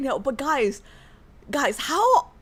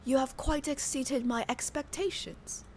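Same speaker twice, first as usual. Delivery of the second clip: softer; 10 dB quieter than usual. Shown as a demonstration. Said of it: "Even softer?".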